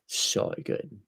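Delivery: slow Aussie drawl on "so"; put-on Australian accent, lingering on the O. Shown as a demonstration. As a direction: stretch "so" with an Australian O. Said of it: "Just 'cause I've got the O's down".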